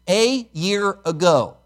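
"a year ago" slowed and weighted; stress on a year ago. Shown as a demonstration. Preacher stressing the verse's words, slow. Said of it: "I want to stress".

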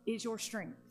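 very slow, broken into short phrases; solemn proclamation. Retold or imitated. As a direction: let each phrase land before the next. Key verse proclaimed slowly.

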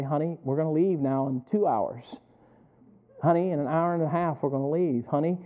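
imitating a patient husband's reminder; slow, patient telling. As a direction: say it gently and unhurriedly, understated. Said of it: "just kinda slowly say".

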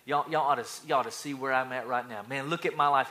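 puffed-up braggart; cocky, self-important swagger; arrogant boasting. Acted. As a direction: brag to your friends, full of pride. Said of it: "He's arrogant".

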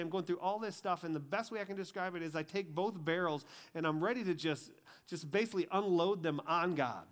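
high, forceful storytelling; impassioned testimony preaching. Real, not acted. Preacher telling how he faced God, impassioned.

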